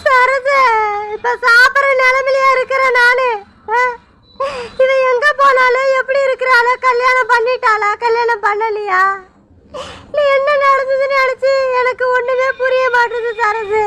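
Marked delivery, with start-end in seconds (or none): 0.0-3.8 tearful refusal. Acted. Mother too grieved to eat. 10.1-13.8 crying confusion. Acted. Mother confused by daughter's act.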